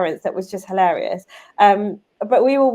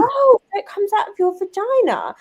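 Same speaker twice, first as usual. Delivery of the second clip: put-on higher, loud little girl announcement; loud child voice; 12 semitones higher, 4 dB louder than usual. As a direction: blurt it out like a kid in public. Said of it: "as kids do very loudly".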